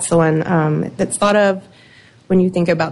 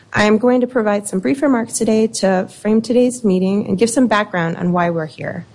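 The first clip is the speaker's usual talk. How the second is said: ordinary talk, nothing marked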